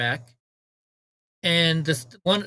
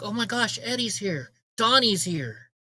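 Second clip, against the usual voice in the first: higher, lightly imitated delight; excited greeting; 4 semitones higher than usual. Store staff spot their favorite regulars, mildly hammed-up excited greeting. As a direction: mimic staff pleased at an arrival. Everyone delighted to see them, retold.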